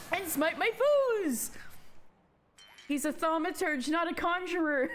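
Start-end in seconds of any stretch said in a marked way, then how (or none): 0.1-1.5 high, drawn-out climax of a spell; triumphant incantation. Acted. Old mage finishing his spell, proclaiming. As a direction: proclaim it grandly, higher and slower.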